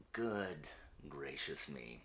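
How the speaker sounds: slow, whispered gasp of dismay; mock dismay. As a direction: gasp it out in a hush, as if shocked. Mock dismay at a quiz result.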